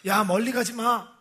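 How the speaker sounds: 아이들을 부르듯 외쳐; calling out to kids. Retold or imitated. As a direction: call the kids back from the water. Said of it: "막 소리를 지르는데". (아이들에게 멀리 가지 말라고 외치는 소리)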